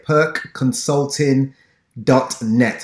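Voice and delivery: slow, deliberate mock English accent on "perk consulting dot net". Shown as a demonstration. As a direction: read out the web address in a playful English accent. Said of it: "I'm saying it in a very English accent".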